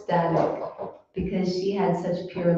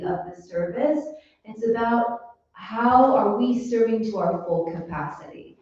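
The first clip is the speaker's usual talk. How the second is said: chastising Lord Ram; 4 semitones higher than usual. Retold or imitated. Lord Ram correcting Hanuman, a touch of stern scolding. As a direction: gently rebuke the proud monkey. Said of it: "Lord Ram chastised Hanuman".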